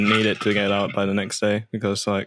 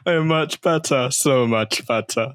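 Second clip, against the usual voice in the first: snooty voice. Acted. Showing friends the snooty voice that annoys Remy, lightly snooty. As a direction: act superior, looking down your nose. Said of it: "a particular snooty voice".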